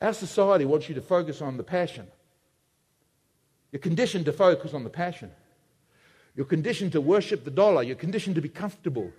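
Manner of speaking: low, soft, measured statements; quiet, sober sermon tone; subdued preaching. Real, not acted. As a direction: bring it right down after the outburst. Subdued preaching after the outburst.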